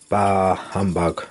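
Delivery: put-on slow, growling old miser; growled. A narrator's reading. Scrooge dismisses his nephew's Christmas cheer, growling slowly. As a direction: growl it out like a grumpy old man. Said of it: "growled Scrooge".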